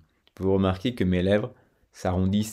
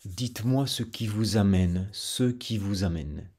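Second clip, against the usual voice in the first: southern French. Shown as a demonstration. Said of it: "Dans la partie sud de la France".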